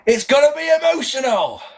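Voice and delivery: high, strained mock shout; Vinnie Jones impression. Imitating Jones's one line left for tonight, mock shouting. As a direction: belt it out as a hammed-up catchphrase. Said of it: "And then he says".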